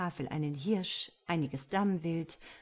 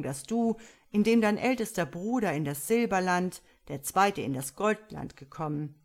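displeased king; 5 dB louder than usual. Acted. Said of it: "der König war keineswegs erfreut".

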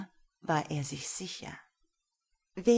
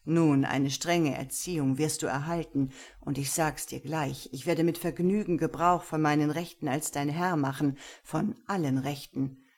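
louder, measured stern male voice; stern master; 4 dB louder than usual. Acted. Gero sets his rules for Lena, stern and measured.

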